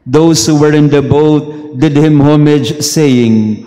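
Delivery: slow, measured scripture reading; Gospel reading. Acted. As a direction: proclaim it like a lector at Mass. Reads the Gospel aloud.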